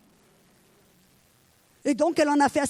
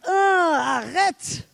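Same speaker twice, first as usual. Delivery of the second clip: loud mock stop; 3 semitones higher, 4 dB louder, much slower than usual. Shouting stop at the alarm.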